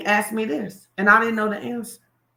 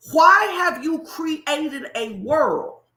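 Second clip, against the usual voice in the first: slow probing question; 2 semitones higher than usual. Retold or imitated. Retells trainer's probing question.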